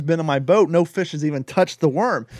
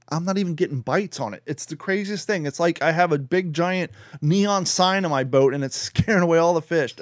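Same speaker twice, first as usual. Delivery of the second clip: normal talking voice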